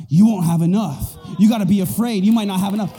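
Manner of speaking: loud, bullying taunt; devil's lies. Acted. Devil lying to children of God, loud taunting. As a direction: press the lie on them forcefully. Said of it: "the lies of the devil who would tell us".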